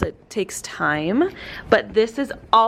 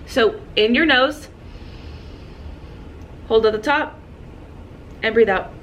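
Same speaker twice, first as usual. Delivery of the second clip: guided breathing demo. Shown as a demonstration. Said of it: "how to take proper deep breaths".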